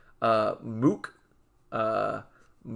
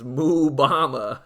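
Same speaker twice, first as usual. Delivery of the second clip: laughing; 2 semitones higher, 5 dB louder, slower than usual. Real, not acted. Laughing at own pun name.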